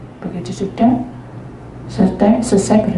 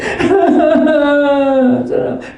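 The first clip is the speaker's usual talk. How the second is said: laugh; 7 semitones higher than usual. Real, not acted. Laughs after imitating the girl.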